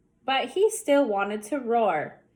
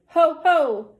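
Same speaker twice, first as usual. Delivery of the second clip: mock laugh; 4 semitones higher, 7 dB louder than usual. Sid's triumphant laugh.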